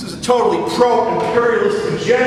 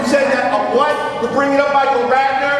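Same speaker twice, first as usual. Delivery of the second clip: angry heckling; 4 semitones higher than usual. Real, not acted. Heated quarrel with the meeting chair.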